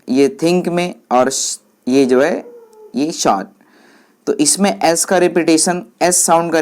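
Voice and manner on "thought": शॉर्ट for "thought", opening on a hissing s/sh sound; teacher's demo of th turned into s in शॉर्ट. Shown as a demonstration. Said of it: "टीएच is pronounced like S".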